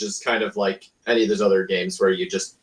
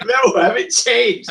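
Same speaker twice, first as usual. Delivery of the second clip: stubborn dictator; 13 semitones higher, 4 dB louder, slower than usual. Retold or imitated. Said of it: "He's like".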